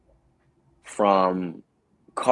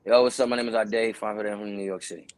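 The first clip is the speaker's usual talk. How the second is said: careless mumbling. Retold or imitated. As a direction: mumble the slate like you're over it. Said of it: "I'm just mumbling".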